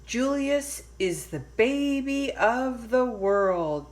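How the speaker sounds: chiming parents. Acted. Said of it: "chimed Lily's parents".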